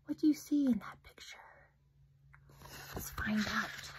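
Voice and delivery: whispered question. Acted. Reader asking children what they see, whispering. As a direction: invite them in, whispering.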